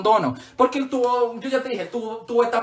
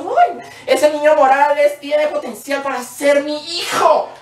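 God voice; 4 semitones higher, slower than usual. Retold or imitated. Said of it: "Dios me dijo".

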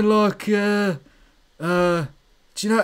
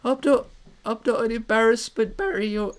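Shimmy. Pretend. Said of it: "Shimizu, Shimmy".

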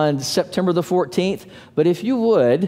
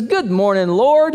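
cheerful greeting; 3 semitones higher than usual. Retold or imitated. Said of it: "he says".

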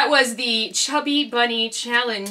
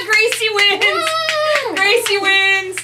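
announcing; 8 semitones higher, much slower than usual. Real, not acted. Announcing winner.

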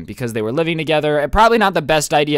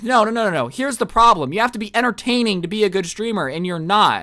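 put-on scolding girlfriend; 5 semitones higher than usual.

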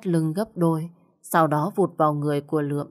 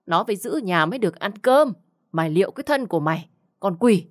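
berating scold; 2 semitones higher, faster than usual. Acted. Mother-in-law berating the lazy new bride, fast and scornful. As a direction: rattle off the complaints in contempt.

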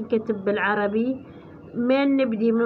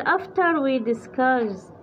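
slow text reading; much slower than usual. Shown as a demonstration. Slowly reads the English text.

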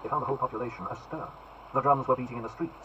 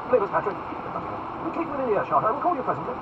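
haughty duke; 11 semitones higher than usual. Acted. Buckingham voiced high.

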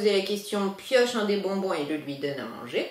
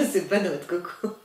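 laughing. Real, not acted. Laughing while teasing.

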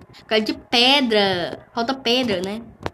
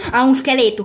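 startled; 3 semitones higher, 7 dB louder, faster than usual. Real, not acted. Spots a skeleton in game.

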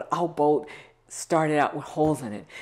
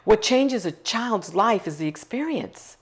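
slow emphasis; 3 semitones higher, slower than usual. Real, not acted. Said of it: "slow emphatic repeated point".

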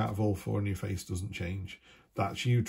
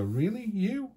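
disbelieving surprise; 6 semitones higher than usual. Retold or imitated. People reacting to a cheerful friend's sadness, with amazed disbelief. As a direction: pitch leaping much higher on You, amazed. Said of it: "people go".

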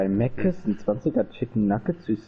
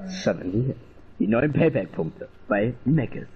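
chipper 1950s ad; 2 semitones lower than usual. Pretend. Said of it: "Wir machen jetzt Teleshopping".

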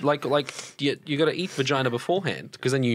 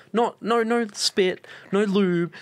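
higher-pitched retold protest; mock indignant; 6 semitones higher, much slower than usual. Retelling what the ex did, higher mock protest. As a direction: pitch it up, item by item.

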